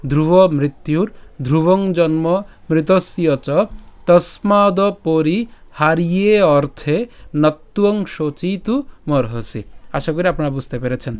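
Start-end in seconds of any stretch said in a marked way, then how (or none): 0.1-9.6 measured Sanskrit verse recital in short phrases; deliberate teacher's recitation with pauses; shloka recitation. Shown as a demonstration. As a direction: recite the whole verse slowly, drawing out long vowels. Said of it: "আমি যদি আবার প্রথম থেকে বলি".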